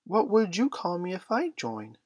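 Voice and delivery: put-on high, eager small boy's demand; Michael demanding. A narrator's reading. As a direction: demand it in a high little-boy voice. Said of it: "Michael demanded".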